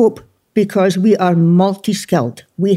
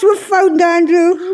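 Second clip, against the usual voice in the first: slow triumphant; 10 semitones higher, slower than usual. Real, not acted. Triumphant discovery of Andrew.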